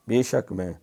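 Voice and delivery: ordinary talk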